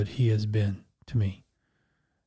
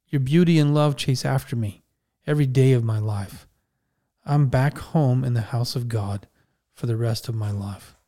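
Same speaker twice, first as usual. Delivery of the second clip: scripture reading. Acted. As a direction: read the psalm unhurried and reverent. Reads Psalm 23 aloud.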